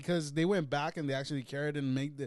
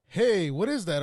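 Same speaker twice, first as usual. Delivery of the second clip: monotone voice; 4 semitones higher, 6 dB louder than usual. Retold or imitated. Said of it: "in a monotone voice".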